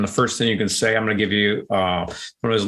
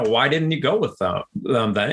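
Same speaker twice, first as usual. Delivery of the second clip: open, curious question, falling at the end; sincere curiosity, not blame; genuinely curious. Shown as a demonstration. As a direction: ask it like you really want to know. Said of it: "it's the tonality that makes a difference".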